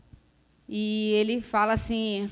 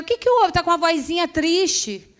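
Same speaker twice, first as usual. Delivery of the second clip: worried friend; 8 semitones higher, 5 dB louder than usual. Retold or imitated. Concerned friend on phone.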